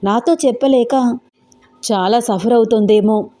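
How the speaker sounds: put-on anxious young man fretting under his breath; Venkat's worried thoughts. Venkat alone, stunned by the pregnancy news, worried monologue. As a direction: voice him panicking in his own head.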